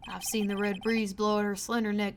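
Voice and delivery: easygoing cowboy cop; lightly voiced cowboy. Cowboy detective chatting with the defence lawyer, lightly voiced.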